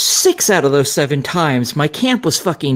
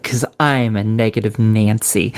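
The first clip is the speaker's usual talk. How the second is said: smiling voice; 5 semitones lower than usual. Real, not acted. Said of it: "we can hear the smile creeping up into her voice".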